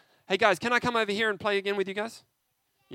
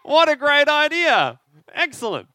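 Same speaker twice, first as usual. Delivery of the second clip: mock thrilled, much higher and louder; sarcastic delight; 8 semitones higher, 12 dB louder than usual. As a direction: gush over the bad idea with heavy sarcasm. Mock delight at punching back.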